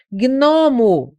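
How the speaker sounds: GNOMO slowly, with both G and N sounded; GN pronunciado. Shown as a demonstration. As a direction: say GNOMO as "gui-nomo". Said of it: "Eu falo gnomo. Pronuncio". (GNOMO com o G audível, "gui-nomo")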